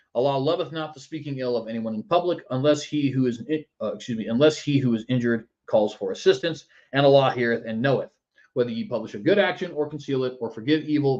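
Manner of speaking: ordinary talk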